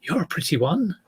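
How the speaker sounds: put-on half-hearted Chinese accent as Pigsy chatting up girls; mock Chinese accent. Retelling Pigsy's chat-up line in a mild mock Chinese accent. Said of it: "I shouldn't do a Chinese voice".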